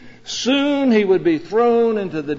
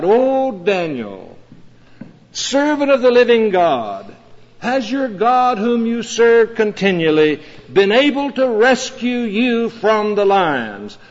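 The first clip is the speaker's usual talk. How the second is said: raised, pleading call of a worried king; king crying out; 4 semitones higher than usual. Retold or imitated. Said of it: "he cried out".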